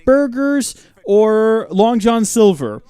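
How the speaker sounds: high, bright sing-song greeting; cheery greeting. Real, not acted. Streamer greeting viewers on lunch break, cheery. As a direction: chirp it like a host.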